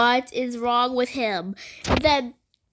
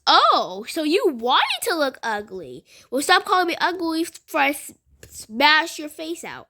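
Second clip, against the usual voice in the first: mild retold threat; 4 semitones higher than usual. Threatening the mocking girl.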